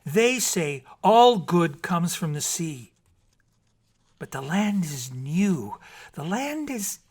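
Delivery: slow, loud, high mermaid; lightly voiced mermaid explaining. A narrator's reading. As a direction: mermaid struggling to explain the land. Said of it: "She said swiftly".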